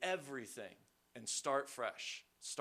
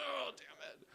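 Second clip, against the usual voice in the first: mock dismay; 12 semitones higher, 5 dB quieter than usual. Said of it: "And I was like".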